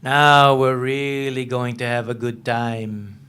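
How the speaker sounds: slow, low sinister gloat; menacing lieutenant. Acted. Lieutenant gloating over his prisoner, slow and low. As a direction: relish the threat, drawn out. Lieutenant taunting captive writer.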